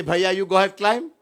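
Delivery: a playful snake inviting him to climb; snake's voice. Retold or imitated. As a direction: play the snake waving him on.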